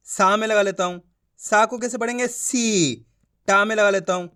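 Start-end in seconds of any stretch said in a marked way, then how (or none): 2.3-3.1 सी with a drawn-out ee; long ī. Shown as a demonstration. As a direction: stretch the vowel of सी. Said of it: "खींच खींच के पढ़ना है".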